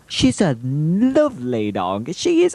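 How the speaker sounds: drawn-out swoop up to a high pitch; put-on high voice, stretching the words; changed silly voice. Filmer dotes on the dog, silly high-swooping voice. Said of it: "I don't know why my voice has changed".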